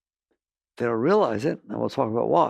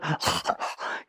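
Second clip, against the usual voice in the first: mimed gasping as if swamped; wordless, breathy gulp for air; 7 dB quieter than usual. Acted. Speaker shows listeners a wave coming over, gasping.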